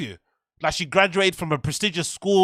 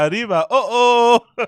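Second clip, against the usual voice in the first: laughing to tears; 3 semitones higher, 5 dB louder than usual. Real, not acted. Crying with laughter.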